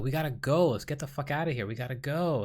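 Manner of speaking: retold plea to get moving; urging. Dreamer trying to get people out, urging. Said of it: "trying to encourage people".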